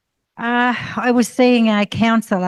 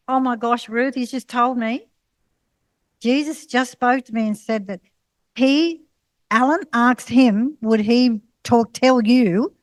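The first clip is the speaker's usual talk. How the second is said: a touch higher, breathless with wonder; excited retelling; 3 semitones higher than usual. Retold or imitated. Counsellor rings Ruth back with news, lightly excited. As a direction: relay the news with mild awe.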